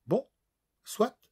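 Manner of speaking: un léger accord réticent, à contrecœur; céder à peine, un brin agacée; de mauvaise grâce. A narrator's reading. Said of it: "acquiesça-t-elle de mauvaise grâce". (une pointe de mauvaise grâce)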